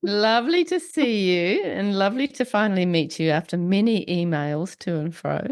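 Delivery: croaky voice with a chest cold; blocked nose, wheezy and croaky. Real, not acted. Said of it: "wheezy voice in this episode".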